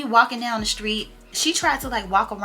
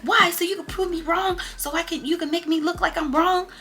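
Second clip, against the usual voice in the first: mimicking Coco upset; 9 semitones higher than usual. Friend Coco quoted in quarrel.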